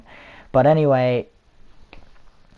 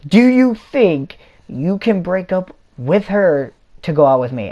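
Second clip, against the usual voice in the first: hammed-up creepy stalker imitation; 8 semitones higher, 7 dB louder than usual. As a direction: draw it out like an unhinged admirer. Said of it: "Now, that's really creepy".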